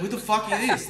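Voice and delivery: laughing disbelief. Retold or imitated. Drunk in bar, offered pizza.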